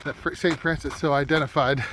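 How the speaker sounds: talking through a face mask; muffled speech behind a cold-weather mask. Real, not acted. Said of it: "Hopefully you can hear me with the mask on".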